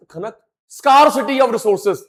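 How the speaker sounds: slow mock teacher voice; a hint of madam dictating, slowly; imitating the madam. Teacher mimics madam reading out a term, slow mock. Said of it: "madam ने बोला".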